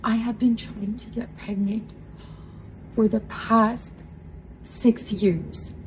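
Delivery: softened, halting retelling; retold quiet disbelief after long waiting; overwhelmed confession. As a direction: say it quietly, pausing between phrases. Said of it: "I just start squeezing so hard".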